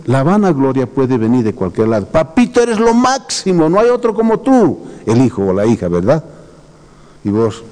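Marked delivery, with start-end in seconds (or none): 2.1-4.8 put-on high, sweet little child praising papa; butter up your father like a small kid; child flattering dad. Child gushing over a proud papá, high and sweet.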